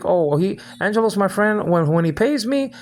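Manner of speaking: lightly voiced mock friend; mocking imitation. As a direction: mimic her in a sing-song sneer. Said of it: "You can't pick".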